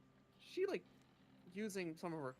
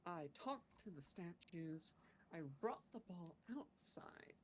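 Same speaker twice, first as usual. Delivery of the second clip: halting adventurer character. Acted. Player recounts the day in character.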